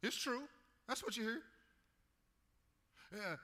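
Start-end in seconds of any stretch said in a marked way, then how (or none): 0.0-1.4 high, louder, proud boast; confident, prideful Saul boasting to Samuel. Acted. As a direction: puff up like a proud king. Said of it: "he's confidently prideful".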